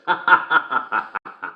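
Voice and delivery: cracks up laughing. Acted. Host giggling at his own joke, laughing. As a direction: giggle at the punchline.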